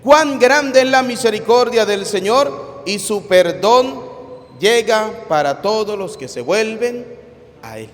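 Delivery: slow, weighty reading of the sacred text; solemn scripture reading. Acted. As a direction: read each phrase slowly like a proclamation. Reads the first reading aloud.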